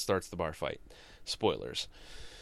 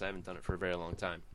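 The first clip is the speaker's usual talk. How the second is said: ordinary talk, nothing marked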